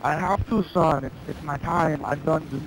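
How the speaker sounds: lightly voiced Terminator saying goodbye; mock-solemn dying robot father; Terminator farewell. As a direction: Terminator bids John Connor farewell, understated. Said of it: "Arnold voice".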